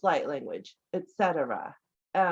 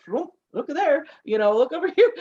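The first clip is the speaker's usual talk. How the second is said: higher, louder exclaiming; playful surprise; 7 semitones higher, 7 dB louder, faster than usual. Acted. Podcast guest acting out seeing through thin veils, playfully surprised. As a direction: call out as if spotting things everywhere. Acts out constant surprise sightings.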